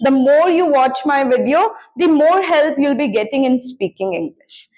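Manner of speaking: very slow, each word set apart for learners; slow model sentence. Shown as a demonstration. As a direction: spell it out slowly like a teacher giving the example. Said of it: "teacher models the English sentence". (धीमे-धीमे, साफ़ बोलकर उदाहरण वाक्य)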